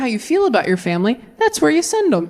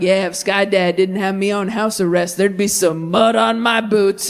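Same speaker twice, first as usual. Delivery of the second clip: lightly voiced tough Christian; 3 semitones lower than usual. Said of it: "some Christians walk around like".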